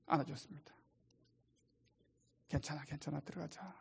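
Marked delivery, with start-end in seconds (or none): 2.5-3.7 near-hushed, soft comforting; calm her like a frightened child; father hugging his daughter at the door, soothing; soothing reassurance. Retold or imitated.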